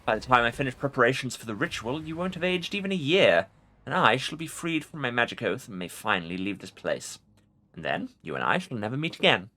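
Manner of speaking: haughty ancient undead king; arrogant lich. Acted. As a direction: order them about from on high. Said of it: "Arrogance rings in the Lich's voice".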